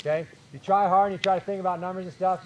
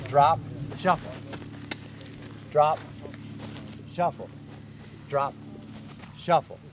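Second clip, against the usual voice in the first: slow demo count. Shown as a demonstration. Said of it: "Okay, so take a look".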